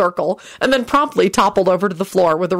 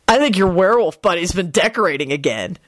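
smirking. Acted. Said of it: "Henry smirked".

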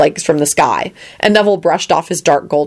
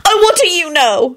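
high-pitched cross shriek; acted indignant high outburst; Elizabeth, shrieking; 13 semitones higher than usual. A narrator's reading. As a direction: snap back with pitch shooting up. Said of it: "she shrieked".

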